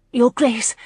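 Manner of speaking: rasping. A narrator's reading. Flustered Lauren curtsies to the Duke, rasping. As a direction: force out the title, slightly rasped. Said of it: "she heard herself rasp".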